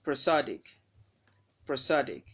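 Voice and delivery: prosodic with SOD punched, falling away; stress on SOD in prosodic. Shown as a demonstration. Teacher models a word for learners, stress on SOD in prosodic. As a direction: hit the second syllable of prosodic. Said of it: "stressed on the second syllable from the end".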